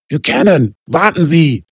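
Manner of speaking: high, loud commanding yell; officer yelling for him to stop; shouted order. Acted. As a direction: shout him down before he runs. Police shouting during shootout.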